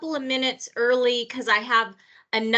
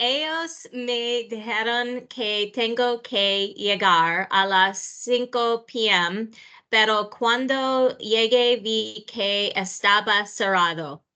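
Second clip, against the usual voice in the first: Spanish spoken with an American accent. Speaking Spanish at natural speed for a recording: American accent in Spanish. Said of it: "you have an American accent".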